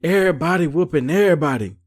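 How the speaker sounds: singsong imitation of a bragging announcement; imitated stage boast. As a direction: stretch it out, half chanting. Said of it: "Natalie come back on stage talking about".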